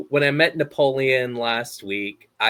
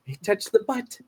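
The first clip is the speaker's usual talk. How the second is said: lightly voiced high gasp of a fish; Finding Nemo impression; 8 semitones higher than usual. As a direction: gossip it up high. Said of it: "my Finding Nemo impression".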